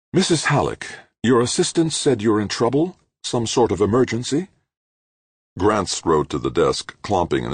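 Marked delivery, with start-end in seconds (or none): 0.1-4.5 higher woman's voice, anxious and worried; a rich woman alarmed on a video call; distressed woman. A narrator's reading. To Missus Halleck on the screen, higher and worried. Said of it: "She looked distressed".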